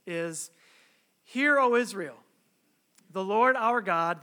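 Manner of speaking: measured, emphatic Bible reading; scripture reading. Acted. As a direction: read scripture to a congregation, weighting key words. Reads the scripture passage aloud.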